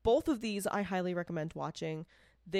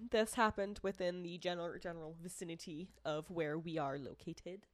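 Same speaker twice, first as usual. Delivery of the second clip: careful, over-formal case introduction; oddly formal delivery; 4 dB quieter than usual. Real, not acted. Co-host introducing a local case, oddly formal. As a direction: lay it out stiffly and formally. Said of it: "I don't know why I'm talking like this".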